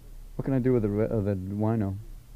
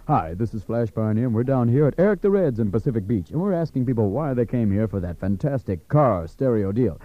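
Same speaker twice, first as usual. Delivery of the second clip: mellow DJ character. Acted. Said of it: "Here we go, take two".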